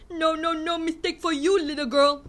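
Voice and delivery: lightly sneering grown-up; mocking. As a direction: talk down in a mock patronising voice. Mocking peers' expectation.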